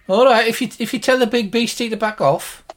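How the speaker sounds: high-pitched put-on woman's voice; grudging healer. Healer agrees if the beast backs off, high grudging voice.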